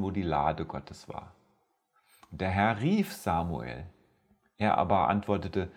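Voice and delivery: measured, solemn scripture reading to listeners; Bible story reading. Acted. Preacher reading First Samuel to his podcast audience, solemn reading.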